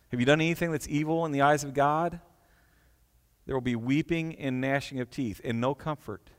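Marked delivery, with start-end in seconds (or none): 3.5-6.3 softer, grave repeat of the line; solemn hush. Shown as a demonstration. Preacher repeating the warning softly to his congregation, hushed and grave. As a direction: let it sink in quietly. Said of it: "Just let that resonate for a moment".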